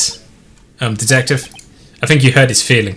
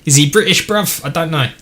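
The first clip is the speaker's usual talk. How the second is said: mock British accent; 3 semitones higher than usual. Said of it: "is Edgeworth British?".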